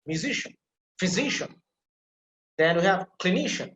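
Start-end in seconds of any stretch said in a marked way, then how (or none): 0.1-1.5 "Musician" and "physician" stressed on SI; stress on second syllable. Shown as a demonstration. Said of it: "put emphasis on the second syllable". 3.2-3.7 "clinician" with the middle NI emphasized; stress on NI. Shown as a demonstration. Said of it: "that will emphasize here".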